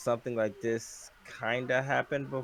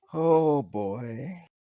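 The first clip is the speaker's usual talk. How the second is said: heavy, mournful, regretful, very sad tone, voice raised; 6 dB louder than usual. Reacting to news that something happened: very sad tone. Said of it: "That's a very sad tone".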